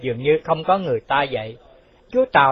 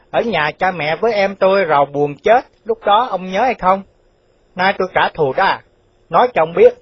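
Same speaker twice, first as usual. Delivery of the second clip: higher-pitched, insistent accusation; accusing avenger; 4 semitones higher, 4 dB louder than usual. Acted. Chú Tàu revealing himself to the official who wronged him, accusing. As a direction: confront him with the old wrong.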